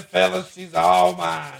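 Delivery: high, drawn-out put-on drawl of pride; mock redneck husband showing off his wife; hammed-up proud husband. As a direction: boast to the fellas in a silly high voice. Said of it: "And then I said".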